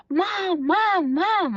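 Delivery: a hint of a child calling out, pitched high; child calling mom. Nonverbal son calling his mom from the door, lightly voiced and high. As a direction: call mom from the doorway like a small boy.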